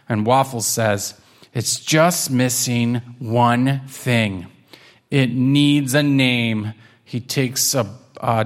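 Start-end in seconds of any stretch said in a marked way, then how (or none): 1.5-6.7 slow, measured pronouncement; deliberate kitten. Acted. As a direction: draw it out for suspense. Kitten ponders the finished rocket.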